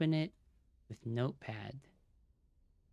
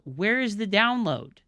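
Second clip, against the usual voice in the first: louder and higher, exasperated; angry yell; 7 semitones higher, 9 dB louder than usual. Real, not acted. Streamer yelling at the download page, fed up. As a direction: demand the answer from the screen.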